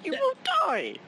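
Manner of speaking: ominous warning. Acted. NPC warns of deadly mushrooms.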